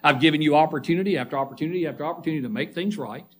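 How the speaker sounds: low, quick, restrained reproach; a hint of Christ giving a personal warning; lightly voiced Christ. Preacher voices Christ warning a church member, lightly acted reproach. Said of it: "Christ is looking at me in the eye and saying".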